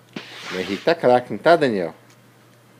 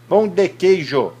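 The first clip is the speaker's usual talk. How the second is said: careful word modelling; 6 semitones higher than usual. Shown as a demonstration. Models a word for toddler to repeat.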